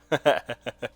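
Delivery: quick rapid chuckle; short amused laugh. Real, not acted. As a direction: chuckle briefly after your own remark. Amused at broken weapon.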